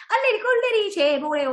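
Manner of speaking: high sing-song playground taunt; mock teasing. Classmates mocking a shy child at presentation, acted teasing. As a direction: act out a child's jeering chant. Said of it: "이러면서 누가 놀리고 괴롭히면".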